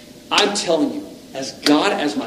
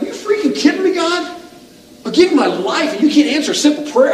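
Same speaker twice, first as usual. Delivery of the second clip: exasperated prayer; 11 semitones higher than usual. Retold or imitated. Praying alone at night, fed up with God. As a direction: demand an answer, fed up and disbelieving. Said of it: "And I'm like".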